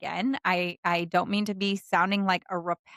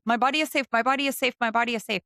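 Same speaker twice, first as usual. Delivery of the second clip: brisk, insistent rote chant; mechanical affirmation; 4 semitones higher, much faster than usual. Shown as a demonstration. Coach mocking a rote affirmation, insistent repetition. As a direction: rattle it off like a forced mantra. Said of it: "I don't care if you say that".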